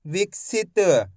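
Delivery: विकसित stretched out slowly, each syllable held; slow drawn-out word. Shown as a demonstration. Teacher repeating the word for the class, slow and drawn out. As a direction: draw out विकसित very slowly for the learner. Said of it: "चलिए एक बार फिर से देखिए".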